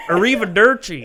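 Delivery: a hint of a laughing mock Italian accent. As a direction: toss off a jokey Italian goodbye. Mocking Italians.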